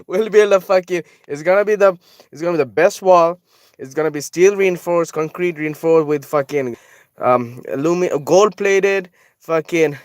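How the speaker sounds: high, laughing mock politician boast; Donald Trump. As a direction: brag about your wall, half laughing. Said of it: "Donald Trump is like".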